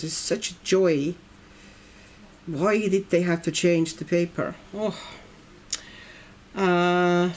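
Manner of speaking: ordinary delivery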